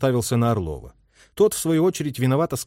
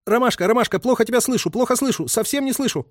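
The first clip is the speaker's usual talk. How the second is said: high, chanted radio call; radio operator chanting into the headset; muttered singsong; 11 semitones higher than usual. A narrator's reading. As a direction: drone the call sign rhythmically. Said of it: "речитативом выборматывал радист".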